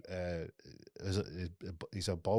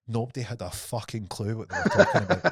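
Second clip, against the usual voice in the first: laughing through punchline; 7 semitones higher, 7 dB louder than usual. Real, not acted. Punchline of retold story.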